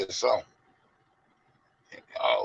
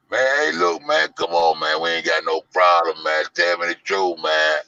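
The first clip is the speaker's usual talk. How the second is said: loud coaxing plea; pleading friend; 4 semitones higher, 6 dB louder than usual. Retold or imitated. A friend begging Zach for the truth, loud and coaxing. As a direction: beg him for the truth.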